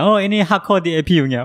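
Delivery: lightly voiced contractor; quoting contractor. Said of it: "然后讲".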